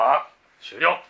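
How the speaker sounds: drawn-out laughing "終了"; slow, laughing declaration that it's over; a mock closing call, laughing. Real, not acted. Jokes the question is done.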